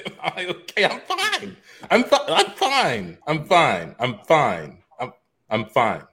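high cracking "I'm fine" winding down; numbness breaking into sobs. Acted. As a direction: insist you're fine while breaking. Insists he's fine, breaking.

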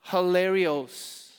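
hilarios said slowly, every syllable drawn out; hilarios, drawn out like a teaching word; Greek word. Shown as a demonstration. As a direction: spell hilarios out by ear, slowly. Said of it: "the Greek word for cheer is".

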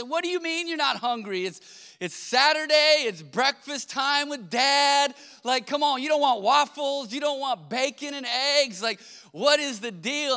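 high, loud disbelief; can't believe they won't eat breakfast; dad protesting to the kids, high and loud; disbelieving dad. Retold or imitated. Dad reacts to kids skipping breakfast.

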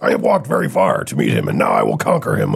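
solemn warrior with no contractions; anime voice. Pretend. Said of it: "my anime voice".

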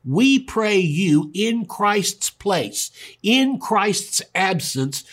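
solemn scripture plea, slowed right down; slow emphatic reading. Acted. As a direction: plead each word slowly like an ambassador. Preacher reading the verse emphatically.

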